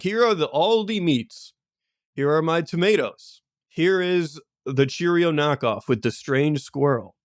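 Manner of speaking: lightly voiced shopkeeper, slowing down; RPG shopkeeper. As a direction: present your wares like a merchant. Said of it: "great RPG shopkeeper".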